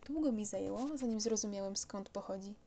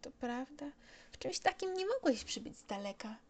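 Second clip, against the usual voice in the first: put-on higher, light boyish voice rising; musing child voice; 5 semitones higher than usual. Little prince looks at the plane, musing child voice. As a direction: think aloud like a small boy.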